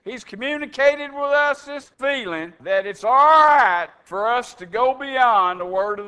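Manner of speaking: a lightly voiced, pious elder board announcing to the church; mock elders. Preacher mimics elders announcing a change to the congregation, lightly hammed-up pious tone. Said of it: "they announce".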